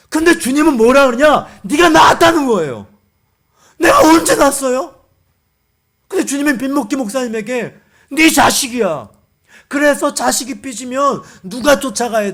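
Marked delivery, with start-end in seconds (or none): 1.6-2.9 loud, high acted declaration; emphatic shout. Preacher voicing the Lord's answer to the pastor, emphatic shout. 3.8-4.9 high, shouted mock objection; loud protest. Pastor protesting to the Lord about spiritual children, loud protest. 8.1-9.1 louder acted pronouncement; firm declaration. The Lord answering the pastor, firm declaration.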